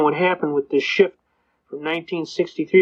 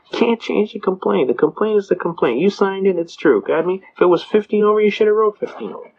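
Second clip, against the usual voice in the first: stern judge; 4 semitones higher than usual. Retold or imitated. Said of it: "And the judge goes".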